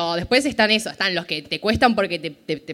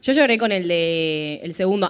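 ordinary delivery

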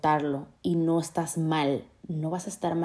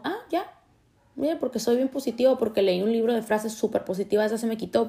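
much higher, breezy fake brightness at the start; mock cheerful; 4 semitones higher than usual. Mocking someone cured by a book of positive quotes, sarcastically cheery. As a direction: sell instant healing, sarcastically.

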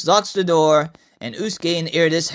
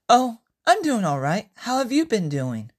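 higher, straightforward voice; Francesca; 6 semitones higher than usual. Acted. Francesca greeting Iridis at the bank, straightforward. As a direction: answer plainly in a higher-pitched voice. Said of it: "Francesca's straightforward voice".

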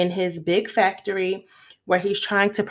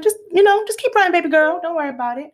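high, sweet talking-round voice; lightly voiced grandpa, higher and louder, sweet-talking; coaxing grandpa voice; 9 semitones higher, 3 dB louder, much faster than usual. Grandpa coaxing the little girl to sign, high and sweet.

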